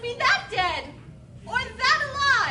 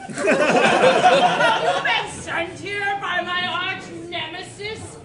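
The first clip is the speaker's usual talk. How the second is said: vast deep cosmic voice; 3 semitones lower, 4 dB louder, much slower than usual. Acted. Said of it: "Eldritch horror".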